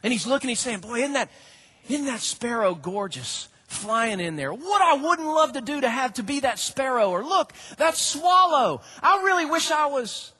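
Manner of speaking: a touch of envious yearning; jealous longing. Retold or imitated. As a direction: sigh after the sparrow. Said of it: "almost speaking jealously".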